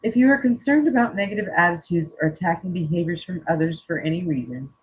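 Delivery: calm, measured reading of a card message; reading aloud. Acted. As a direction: read it out gently and evenly, like a spiritual message. Reads oracle card text aloud.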